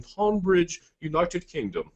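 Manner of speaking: hammed-up British accent; bad British accent. Presenter playfully naming the sale's UK town, bad British accent. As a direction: put on a badly faked British accent. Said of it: "That was my worst accent ever".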